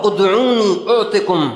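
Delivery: slow, drawn-out Arabic recitation; Quran verse recitation. Acted. Preacher quoting Allah's promise, slow recitation. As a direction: recite it measured, stretching the vowels.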